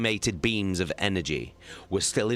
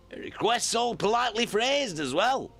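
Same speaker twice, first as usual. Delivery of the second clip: higher, dry ironic remark; dry sarcasm. Acted. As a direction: say it with wry irony.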